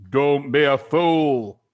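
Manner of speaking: scornful Mister Twit. Acted. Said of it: "Mister Twit said".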